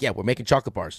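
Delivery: pestering, naggy, unflattering nagging voice. Retelling a friend's answer about a chocolate reservation: imitating Cass being naggy. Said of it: "Why is your impersonation of Cass like that?".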